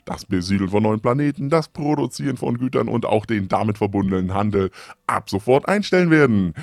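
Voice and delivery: pompous loud government address; loud official proclamation. Acted. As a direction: proclaim it grandly to all citizens. Government holo broadcast.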